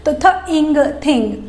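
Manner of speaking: aspirated "थ" and "इंग" joined into "थिंग"; sound blending. Shown as a demonstration. Teacher introducing the th sound to kids. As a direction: breathe out the "थ", add "इंग", blend. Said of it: "सिर्फ आपको थ introduce करना है".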